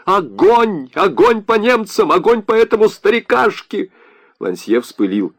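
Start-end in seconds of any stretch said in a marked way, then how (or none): 0.1-3.9 imagined battle cry. Pretend. Leo imagines calling to comrades, mock battle cry. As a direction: call out a mock command to open fire. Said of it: "Я закричал бы".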